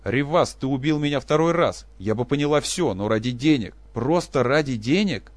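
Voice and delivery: loud, high vengeful declaration; wife drowning out her husband with threats; drowning him out. Acted. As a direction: overpower his words. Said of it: "голос женщины совершенно заглушил".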